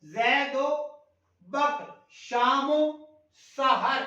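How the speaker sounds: زید و بکر، شام و سحر read slowly, و linked as "o"; teacher showing the linking "o"; slow pronunciation demo. Shown as a demonstration. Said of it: "وہ عطف کا وہ ہے او".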